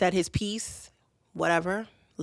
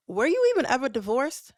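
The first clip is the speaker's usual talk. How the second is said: higher, louder accusing question; confronting; 7 semitones higher, 5 dB louder than usual. Retold or imitated. Woman confronts lying ex on the phone, loud and high. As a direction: demand it, pitch up and loud.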